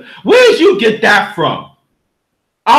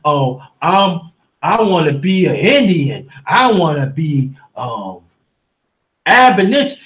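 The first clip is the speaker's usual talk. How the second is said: mocking whiny voice; 10 semitones lower, 3 dB quieter than usual. Mocking people's identity claims.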